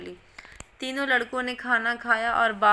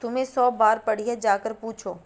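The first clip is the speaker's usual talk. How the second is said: defiant taunt; 4 dB louder than usual. A narrator's reading. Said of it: "Mooliya अंगूठा दिखाकर बोली".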